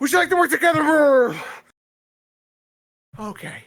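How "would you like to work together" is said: rushed, very fast, louder and higher. Getting a dreaded question over with, rushed, really fast. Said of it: "if I do it really fast".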